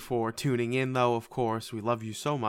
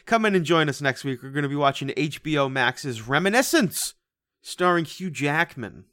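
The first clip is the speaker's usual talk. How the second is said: much louder, higher, brash host plug; loud announcer; 6 semitones higher, 9 dB louder than usual. Acted. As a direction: bellow it like a showman.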